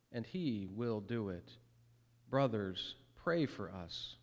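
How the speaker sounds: measured, solemn reading of the text; scripture reading. Acted. Pastor reading scripture to the congregation, solemn and measured.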